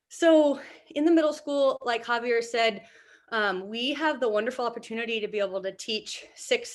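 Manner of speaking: breathless after squats; out of breath. Real, not acted. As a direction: talk while catching your breath. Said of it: "I'm a little bit out of breath".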